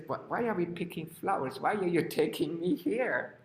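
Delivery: lifted, mildly protesting questions; puzzled questioning. Acted. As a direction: ask like a bewildered story character. Pig puzzled at being taken along.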